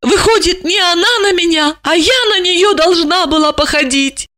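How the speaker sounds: high, hurt inner voice; resentful thought. A narrator's reading. Jealous wife to herself, high and hurt. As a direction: think it with wounded pride. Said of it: "с обидой подумала".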